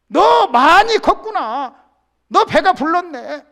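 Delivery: loud, scolding voice of God; loud divine rebuke to David; God rebuking. Acted. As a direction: scold him from on high. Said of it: "하고 지금 책망을 하는 거예요".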